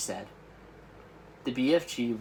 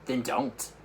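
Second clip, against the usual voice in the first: sharp. Acted. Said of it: "answered sharply".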